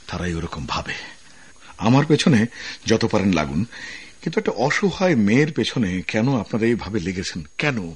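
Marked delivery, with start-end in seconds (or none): 1.9-7.9 loud, furious defiance; indignant outburst. Acted. Officer defends the helpless girl against his bosses, loud and furious. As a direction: hurl it at them in righteous anger.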